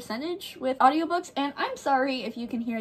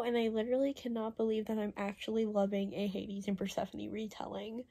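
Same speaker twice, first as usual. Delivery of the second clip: quiet; 7 dB quieter than usual. Real, not acted. Gushing about a loved book.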